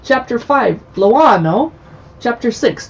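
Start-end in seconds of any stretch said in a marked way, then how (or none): 0.9-1.7 louder, Italian-accented place name. Shown as a demonstration. Host reading chapter names in an Italian accent. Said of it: "my Italian accent".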